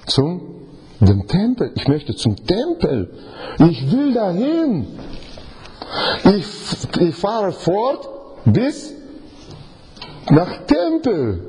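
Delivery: langsam, höher und lauter, sehnend; sehnsüchtiger Jona. Pretend. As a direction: Jonas Sehnsucht langsam ausspielen. Spricht als sehnsüchtiger Jona. (Jona sehnt sich hörbar nach dem Tempel)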